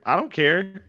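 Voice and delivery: yelled high and loud; shouting. Real, not acted. Repeats it, much louder and higher.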